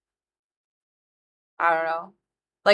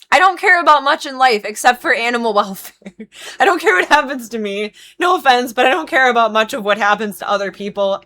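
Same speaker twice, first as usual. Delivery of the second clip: loud, high, fervent declaration; impassioned; 5 semitones higher, 7 dB louder than usual. Real, not acted. Groomer venting that animal welfare matters most, impassioned. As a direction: pour it out emphatically, voice raised.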